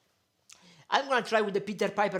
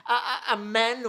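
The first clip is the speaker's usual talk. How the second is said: loud, higher-pitched gushing; delighted amazement; 4 semitones higher, 6 dB louder than usual. Real, not acted. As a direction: burst out, tickled by how it looks. Delighted at sock-covered microphone.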